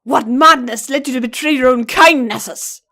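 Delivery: a Pegasus stallion shouting an accusation; shouted. Acted. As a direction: shout down from above. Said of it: "shouted down at him".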